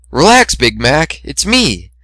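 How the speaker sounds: lightly voiced cocky mare; Rainbow Dash voice. Dash voiced reassuring stallion.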